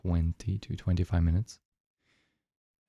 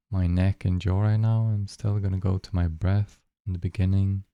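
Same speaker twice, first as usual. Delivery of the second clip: unhurried meditation guide with long pauses; guided meditation. Real, not acted. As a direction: guide listeners gently into the breath, leaving long silences.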